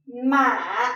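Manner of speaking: "ma" slowly dipping down, then lifting; low falling-rising tone. Shown as a demonstration. Teacher showing thanh hỏi, low falling and rising. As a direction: let "ma" sink slowly and come back up. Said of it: "slowly goes down and then raise".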